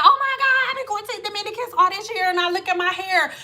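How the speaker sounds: high, fast dismayed mock voice; mock dismayed woman. Vlogger imitating women shocked by their hair, dismayed. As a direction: gasp at the ruined hair.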